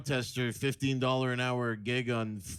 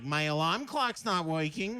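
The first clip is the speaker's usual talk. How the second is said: slow, whiny hotel complaint; mock complaining guest; 4 semitones higher, slower than usual. Comic mimics a guest complaining at the desk, slow and whiny. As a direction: drag it out like a fussy guest. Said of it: "and they're like".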